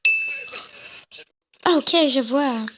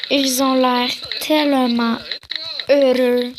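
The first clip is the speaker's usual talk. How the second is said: slow drawn-out delivery. Acted. Watching children play on the lawn, slow and drawn-out. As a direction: linger on "tellement", pause before "heureux". Same line redone stretched.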